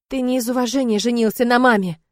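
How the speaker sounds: voice breaking. Acted. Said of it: "срывается мой голос".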